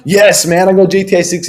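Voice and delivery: a light, gleeful fanboy cheer; thrilled dude, mildly hammed up; mock excited. Imagined gamer cheering the release.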